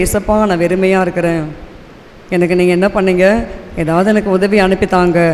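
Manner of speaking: softly recounted plea to God; retold quiet prayer. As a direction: re-enact a hushed, humble plea. Retells her quiet plea to Jesus. (மெல்லிய குரலில் மீண்டும் சொல்லும் ஜெபம்)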